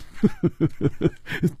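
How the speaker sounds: quiet falling chuckle; soft laugh. Acted. Chu Liuxiang amused at Hu Tiehua's panic, soft chuckle. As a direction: laugh lightly before answering. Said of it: "楚留香说".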